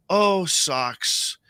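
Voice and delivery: put-on innocent young lady. Store lady admiring socks bought for his son, lightly voiced innocence. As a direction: quote her sweetly, with a lifted first exclamation. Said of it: "she just very innocently goes".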